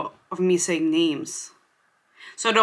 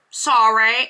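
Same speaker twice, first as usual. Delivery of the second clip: louder go at an Australian "Sorry", rising at the end; attempted Australian accent; 3 dB louder than usual. Shown as a demonstration. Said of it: "people thought I was Australian".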